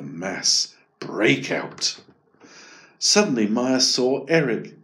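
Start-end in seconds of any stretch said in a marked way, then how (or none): none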